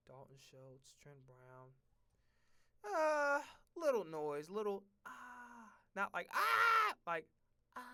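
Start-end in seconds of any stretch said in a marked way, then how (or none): 2.8-7.8 drawn-out silly groans, rising high; mock noise. Vlogger toying with odd noises, mock groan. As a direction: let out a weird little moan. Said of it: "That shit sounded mad sus".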